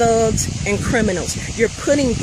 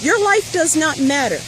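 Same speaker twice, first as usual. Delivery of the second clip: mock white guy voice; 11 semitones higher than usual. Mother mocking what white people would say to Black protesters, high sneering mock voice. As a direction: play the uncaring biker who shrugs off the deaths.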